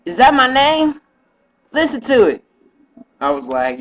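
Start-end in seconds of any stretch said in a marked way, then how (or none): 0.1-2.4 a higher, lightly voiced woman, puzzled; mock her surprised voice, pitched up; imitating her. Quoting his girl who hears her name on the video, puzzled. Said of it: "and she was like".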